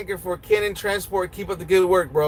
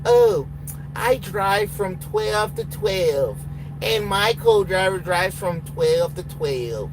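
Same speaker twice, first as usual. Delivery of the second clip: slow, drawn-out mock of a trainee; slow mocking quote of an entitled driver; mocking whiny driver; much slower than usual. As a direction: drag it out like a smug newbie. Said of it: "People that tell me that have sleep schedules".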